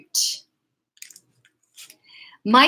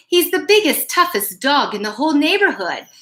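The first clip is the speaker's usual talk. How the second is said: dogs' voices; 5 semitones higher, faster than usual. Acted. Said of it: "the other dogs would say".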